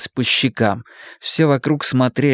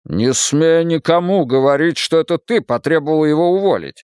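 a touch of anger, lightly raised; firm, irritated warning; mildly angry man; 3 semitones higher than usual. Acted. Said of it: "рассердился Стивен".

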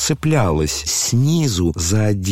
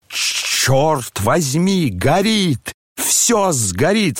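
higher, panicked outcry; alarmed cry; 7 semitones higher, much slower than usual. A narrator's reading. The fist man sees the flames and cries out in alarm. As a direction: cry out that it all burns. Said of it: "вскричал он, увидев пламя".

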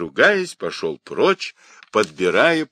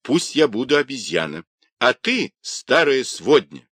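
higher-pitched retort; defiant exclamation; 5 semitones higher than usual. Acted. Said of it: "воскликнул Юньге".

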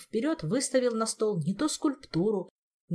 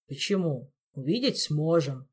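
gloomy Elmar; 2 semitones lower than usual. Acted. Elmar correcting the queen about the victim, gloomy. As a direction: answer darkly, with no lift. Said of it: "мрачно вернул Элмар".

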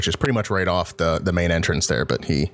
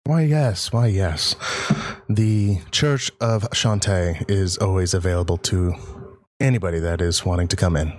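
put-on creepy old man voice. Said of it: "I'm making him sound probably a lot creepier".

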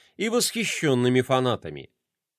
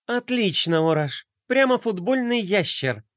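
mock praise, lightly sarcastic; 5 semitones higher than usual. Gloria mocks Orash's statue pose, sarcastic. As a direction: praise that means the opposite. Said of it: "со свойственным ей сарказмом".

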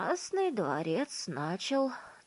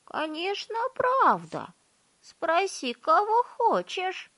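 excited insistence; 13 semitones higher, 8 dB louder, slower than usual. A narrator's reading. Old folks insist loudly.

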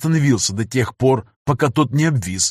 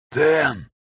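groaning; 3 semitones higher than usual. Acted. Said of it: "простонал Захар".

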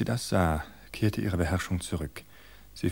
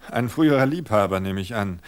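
contemptuous; 2 semitones higher, 6 dB louder than usual. Acted. Ein verächtlicher Ausdruck.

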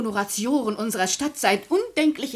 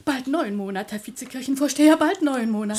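eager correction; 3 semitones higher, 6 dB louder than usual. Acted. Widow corrects the count eagerly.

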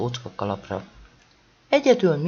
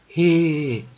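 a sharp, narrated yell, louder; shout; 2 semitones higher, 4 dB louder than usual. A narrator's reading. A teacher on a branch yells Hé at the owl, shouting. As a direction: call out Hé at the owl. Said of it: "ordította".

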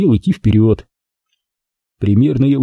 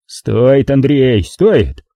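objecting; 2 semitones higher, much slower than usual. Acted. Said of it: "возразил тесть".

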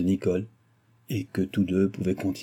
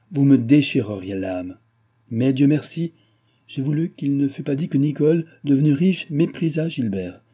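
indignant reproach; 3 semitones higher than usual. Acted. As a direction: scold him with wounded pride. Nicole rebukes Gilbert, wounded.

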